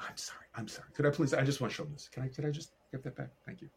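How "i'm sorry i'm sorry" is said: much softer, apologetic; soft apology. Retold or imitated. Asking the stranger to hand back the portfolio, soft apology. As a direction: murmur a quiet sorry.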